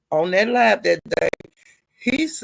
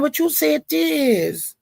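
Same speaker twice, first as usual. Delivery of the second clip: retold heated callout; 6 semitones higher than usual. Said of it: "And I was saying".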